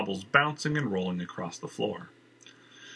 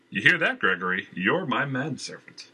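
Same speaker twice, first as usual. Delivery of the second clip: smiling; 4 semitones higher than usual. Acted. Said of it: "he smiled".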